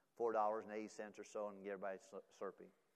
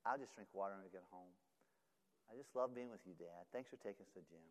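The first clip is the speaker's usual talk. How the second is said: put-on tender child voice; 2 semitones lower, 7 dB quieter than usual. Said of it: "He said".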